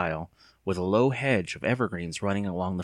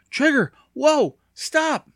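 high, urgent yell at a runaway dog; shouted command; 7 dB louder, much slower than usual. Acted. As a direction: call the dog back.

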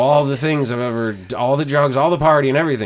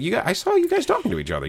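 mock exasperation; 13 semitones higher, faster than usual. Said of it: "I'm like".

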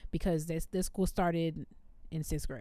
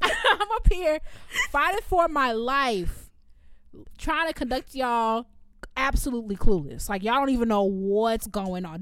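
irritated rant; 3 semitones higher, 4 dB louder than usual. Retold or imitated. Teacher ranting at clueless students, louder and laughing. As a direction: vent at the clueless kids, half laughing. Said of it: "Because I was so irritated".

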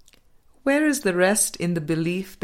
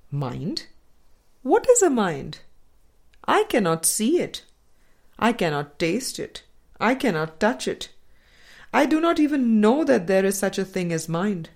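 lightly voiced doubter, a bit higher; mock skeptic; 3 semitones higher than usual. Teacher voices the student's doubting mind, mildly mocking skeptic. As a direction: play the stubborn materialist asking what a mind is.

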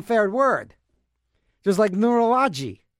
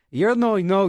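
ordinary delivery

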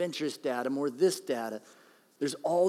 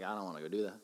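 1 tired grumble; 7 semitones lower, 10 dB quieter, much faster than usual. Retold or imitated. Voicing tired reluctance.

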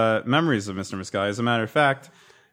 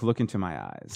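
mock earnest plea; 8 semitones lower, 10 dB quieter than usual. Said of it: "I'm like".

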